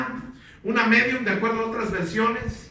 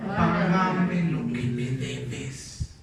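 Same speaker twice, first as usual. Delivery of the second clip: low, slow demand for the money; harsh creditor demand; 6 semitones lower, much slower than usual. Acted. Creditor demanding his debtor pay, low and very slow. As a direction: choke the words out like a hard creditor. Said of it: "le ahogaba diciendo".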